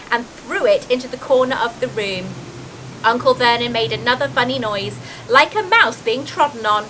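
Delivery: expressive, lilting storybook reading; story narration. A narrator's reading. Reader describing the giant's arrival, in animated storytelling voice. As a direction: read aloud with drama on the vivid words.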